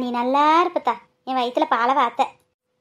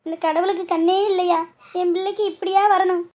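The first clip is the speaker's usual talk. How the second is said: tearful wailing; 5 semitones higher than usual. Acted. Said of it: "நீ என்னத்துக்கு அழுகுற?".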